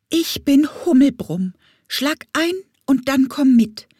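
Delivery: put-on a bee who needs the boy to come now; urgent bumblebee voice. Bumblebee Hummelbrumm urging Leopold to the forest, eager and high.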